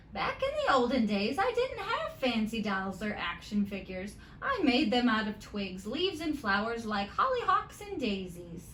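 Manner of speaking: grandma's advice. Acted. Grandma telling Molly about the olden days, lightly voiced. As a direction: lightly voice grandma passing on wisdom.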